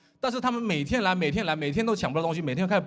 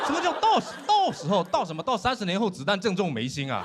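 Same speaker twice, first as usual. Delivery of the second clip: incredulous retort; 3 semitones higher than usual. Acted. Intern challenges captain about the missed shots, incredulous. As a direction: throw the captain's words back in disbelief.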